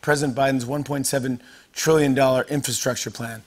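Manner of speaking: raspy, worn-out voice; smoky voice from singing all night; hoarse voice. Real, not acted. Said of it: "This, by the way, is my new voice".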